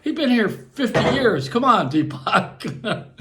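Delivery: a light imitation of an Indian accent; Indian accent impression. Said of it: "He still talk like this".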